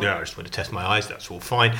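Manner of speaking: low, soft, dismissive quote; offhand mimicry. Mimicking an adviser excusing his castle trip, offhand and low. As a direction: play down the excuse in a low mumble.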